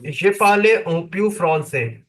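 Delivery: halting beginner French, Indian accent; broken French. Real, not acted. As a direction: speak French like a beginner, simply. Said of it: "comme un bébé".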